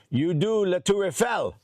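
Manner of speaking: put-on slow, lightly French-accented question; French official. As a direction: ask like a curious French officer. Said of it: "And he goes".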